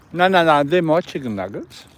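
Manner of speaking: high, loud no with a laugh; laughing scold. Real, not acted. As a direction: stop the dog while laughing. Dog goes for nuggets.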